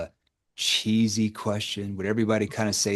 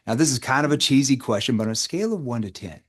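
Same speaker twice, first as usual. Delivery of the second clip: voice shifted down; 2 semitones higher than usual. Shown as a demonstration. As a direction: settle the voice down to disarm them. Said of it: "notice how my voice shifted down".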